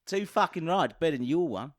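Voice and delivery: mock Australian brag; cocky pretend Australian; Australian accent. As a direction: keep up the put-on Aussie accent. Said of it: "Your one is really bad today".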